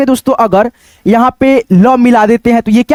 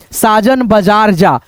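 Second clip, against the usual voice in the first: slow final read of साजन बाजार जा; 2 semitones lower, slower than usual. Shown as a demonstration. Teacher reading back the written sentence, slow. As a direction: read the finished sentence slowly. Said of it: "ये एक आपका sentences हो गया".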